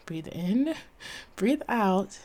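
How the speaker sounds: soft, hushed coaching of herself; quiet inner pep talk, half whispered; calming self-talk. Retold or imitated. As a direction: talk yourself down gently, dropping into a whisper. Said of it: "and be like".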